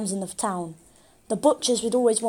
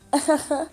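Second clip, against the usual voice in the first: chuckle; 5 semitones higher than usual. A narrator's reading. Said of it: "he chuckled".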